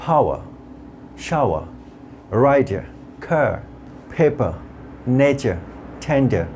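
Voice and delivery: "power, shower, rider, car, paper, nature, tender" un à un, R final effacé; finales longues sans R. Shown as a demonstration. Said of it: "একটু long sound হিসেবে আসবে".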